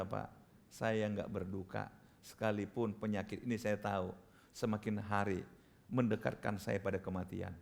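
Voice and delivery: low, subdued, sincere voice; calm testimony. Retold or imitated. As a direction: gently retell a dying woman's acceptance. Voicing a dying woman's peaceful testimony.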